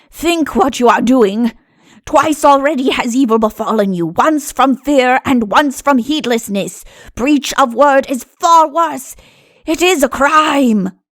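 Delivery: croaking raven voice. A narrator reads the raven's warning to him, in a croaking raven voice. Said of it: "croaked the raven".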